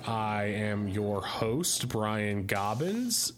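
low slow announcer host; deep slow show intro; podcast host voice. Acted.

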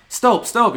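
"Stop, stop." yelled high with a long o. Shown as a demonstration. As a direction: call out "stop" like stoping. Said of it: "You have to yell".

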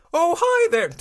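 high, hearty put-on hello; character greeting. Retrying the character's greeting, high put-on voice.

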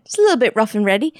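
quick mock-Cockney delivery; Cockney accent. Quoting the baker's favorite expression, in a Cockney accent. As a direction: toss it off in broad Cockney. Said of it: "that was way Cockney".

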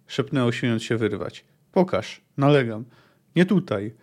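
reading a novel aloud, steady and measured; story narration. A narrator's reading. Reviewer reading the market scene to viewers, narrating. Reads the book passage aloud.

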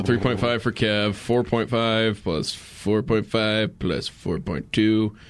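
slow, drawn-out mental math; counting aloud slowly. Real, not acted. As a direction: narrate the sum, x0.5 pace. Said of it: "you seem to be narrating what you were doing".

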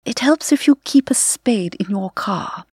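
lightly imitated elegant British radio lady. Imitating the county radio nature host in a light elegant British accent. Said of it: "she very elegantly said".

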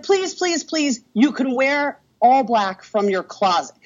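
begging in a high voice; high pleading bride. Retold or imitated. The bride begging her to be a bridesmaid, high and pleading. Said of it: "And she's like".

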